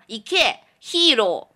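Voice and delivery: cheering little brother. Shown as a demonstration. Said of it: "就跟他说".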